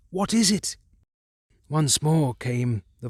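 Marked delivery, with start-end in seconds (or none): 0.1-0.8 high, urgent frightened repeat; begging to know, panicking; terrified. Acted. Carter repeating into the transmitter, terrified. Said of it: "Terrified, I continued to repeat".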